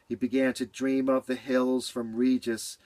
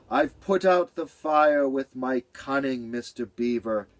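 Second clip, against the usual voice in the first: proud. Acted. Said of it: "Cat sounded tall".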